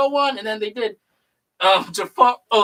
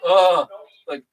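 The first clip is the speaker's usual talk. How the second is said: Ben Kenobi impression; 5 semitones lower than usual. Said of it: "my Ben Kenobi impression".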